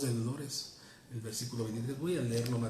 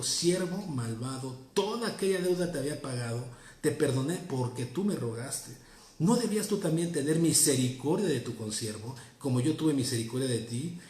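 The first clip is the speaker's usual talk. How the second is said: stern rebuke; 2 semitones higher, 5 dB louder than usual. Acted. The lord rebukes the servant.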